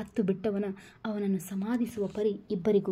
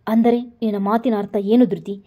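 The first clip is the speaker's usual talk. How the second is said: stern; 7 dB louder than usual. Acted. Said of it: "ಧ್ವನಿಯಲ್ಲಿ ಗಡುಸುತನ ಬಂದಿತ್ತು".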